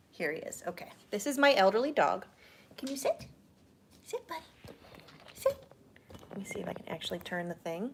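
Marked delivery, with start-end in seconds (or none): 2.8-5.6 soft high dog command. Real, not acted. Asking dog to sit.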